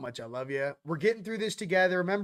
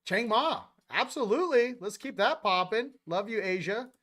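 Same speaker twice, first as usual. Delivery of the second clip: higher and louder, buzzing with energy; excited hype; 4 semitones higher, 4 dB louder than usual. Real, not acted. Streamer cheering on viewers from Asia, excited. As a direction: keep the chat hype rolling. Hyping chat shout-outs.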